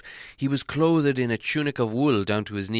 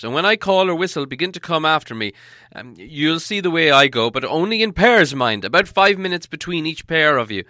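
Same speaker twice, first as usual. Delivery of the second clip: raised, busy wizard voice; wizard giving orders; 4 semitones higher, 7 dB louder than usual. A narrator's reading. Wizard sending dwarfs in pairs, raised and brisk. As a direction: organise the party, thinking as you go.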